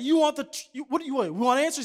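high, loud movie-scene yelling; reenacting the Few Good Men court showdown, yelling; heated courtroom shouting. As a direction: shout it like the climax of a trial. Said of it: "He said".

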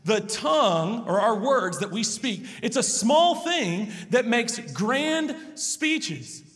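sermon delivery of a Bible passage; scripture reading. Acted. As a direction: lay the verses down solemnly. Reads and expounds scripture passage.

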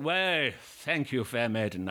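slow, slightly hammed-up gallant actor; lightly mock-courtly, drawn-out greeting; silly performer voice. Actor thanks an admiring wife, hammed-up gallantry. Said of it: "I put on an awfully silly accent".

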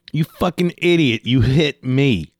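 high, drawn-out indignant retort; retold shouting. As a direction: act out a mild outraged yell. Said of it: "So I shouted at him a little bit".

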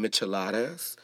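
"micheladas" with an American English accent. Shown as a demonstration. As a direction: say "micheladas" anglicized, with a hard English d or t. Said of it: "saying it with an English accent".

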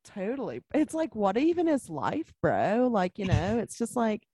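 put-on Californian surfer accent with swooping pitch; lazy, swooping surfer-dude accent. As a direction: play a philosophical California surf bro. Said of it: "surf accent".

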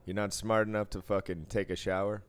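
mocking call-out. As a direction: heckle them across the room. Mocking smelly poker players.

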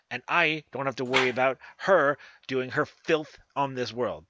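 high, loud commanding witch voice. Acted. Witch sends party to kill her sister, high and commanding. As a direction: give the order like a scheming crone.

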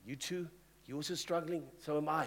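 quiet, gentle surprise; soft sympathetic. Retold or imitated. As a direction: say it softly, relating. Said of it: "they might say".

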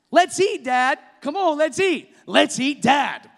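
high, pleading call to dinner; eager calling. Shown as a demonstration. Preacher showing kids eagerly calling dad to dinner. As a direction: hurry dad to the table. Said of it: "same words with different tones".

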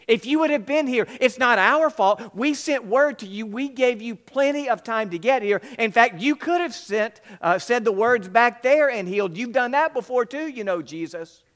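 loud, high, hurling the blame; angry accusation. A narrator's reading. Martha to Jesus after her brother's death, loud accusing outburst. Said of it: "Martha came out and attacked him".

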